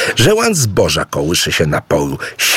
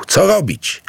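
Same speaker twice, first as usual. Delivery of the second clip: panicked question; 12 semitones higher than usual. Acted. Mawungu panics at the stampede.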